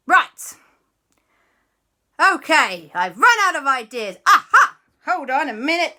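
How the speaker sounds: loud, high thinking aloud; flustered mother. Acted. Mummy runs out of ideas, then excited brainwave. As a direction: build to a triumphant aha.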